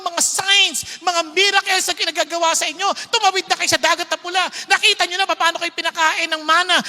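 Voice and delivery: God scolding the stubborn Israelites; loud, rising divine anger; angry God. Retold or imitated. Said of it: "Sabi niya".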